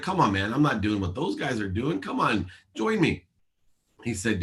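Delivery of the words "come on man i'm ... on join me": retold pleading. Coaxing best friend to the Masters, retold pleading. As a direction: wheedle a reluctant friend, rising at the end.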